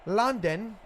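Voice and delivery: a hammed-up British "London", said as "Lundun"; mock British accent on "London", slightly rising; terrible UK accent. Shown as a demonstration. Commentator jokes to co-host in a bad British accent. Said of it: "I have a terrible U K accent".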